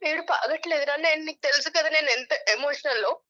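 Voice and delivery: real tearful protest; can't stop crying. Real, not acted. Young woman telling her boyfriend she can't stop, crying. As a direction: talk on through tears you can't hold back. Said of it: "నాకు ఏడుపు ఆగట్లేదు ఆనంద్".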